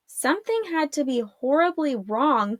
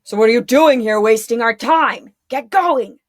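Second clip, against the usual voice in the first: grumbled; 7 dB louder than usual. A narrator's reading. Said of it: "the first one grumbled".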